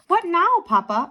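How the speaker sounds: put-on eager child question. A narrator's reading. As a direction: call out to Papa eagerly. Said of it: "asked Theo".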